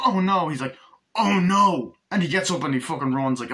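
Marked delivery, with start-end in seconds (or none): 0.1-0.5 high, loud mock panic; hammed-up panicked cry. Retold panic, louder. 1.1-2.6 high, loud hammed-up panic; imitating a caught lover's panic; mock panic. Arnie caught with the girl.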